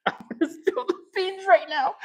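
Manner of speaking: squeaky silly voice. Pretend. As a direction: repeat it in a goofy high little voice. Same line redone in squeaky voice.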